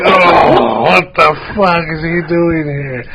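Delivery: drawn-out groan of disapproval; imitated crowd groan. Imitating concertgoers who saw his band shirt, disgusted groan. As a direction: groan it slowly like an appalled crowd. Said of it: "I just heard all these groans".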